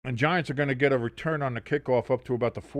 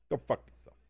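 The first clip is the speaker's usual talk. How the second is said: odd put-on voice, go fuck yourself; silly voiced insult to a chatter; 7 dB quieter, faster than usual. Real, not acted. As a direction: say it in a silly other voice.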